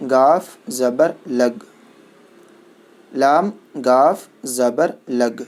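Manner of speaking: slow, deliberate letter-by-letter spelling; teacher dictating letters slowly; slow spelling drill. Shown as a demonstration. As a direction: call out each letter clearly for children to repeat.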